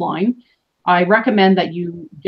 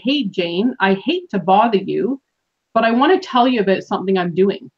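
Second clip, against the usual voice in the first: hesitant, apologetic opener; unconfident. Shown as a demonstration. Coach showing a weak sales opener, unconfident. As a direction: ask as if lacking confidence, afraid of imposing. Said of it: "if you notice the change in my tone".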